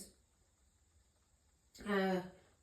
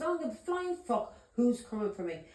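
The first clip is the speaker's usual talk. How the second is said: mild re-enacted shout, pitched up; half-raised voice of a retold challenge; 4 semitones higher than usual. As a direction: retell an annoyed, defiant outburst. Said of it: "I was shouting that".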